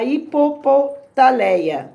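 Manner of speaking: slow, stretched-out "hipopotaleia"; sounded out slowly. Shown as a demonstration. Teacher introducing a made-up word to children, sounded out slowly.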